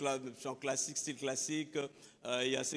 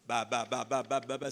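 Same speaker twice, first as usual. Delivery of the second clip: ba ba ba chopped into separate syllables; sounding out syllables; 3 semitones lower than usual. Shown as a demonstration. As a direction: tap out each syllable on its own. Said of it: "syllabe après syllabe".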